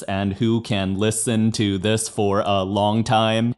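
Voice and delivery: each word clipped short and separated; staccato talk; choppy staccato speech. Shown as a demonstration. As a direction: chop every word off hard. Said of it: "or else it will sound like this".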